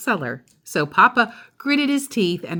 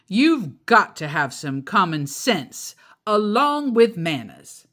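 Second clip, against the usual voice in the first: grumbling; 3 semitones higher, 4 dB louder than usual. Acted. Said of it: "grumbled Papa".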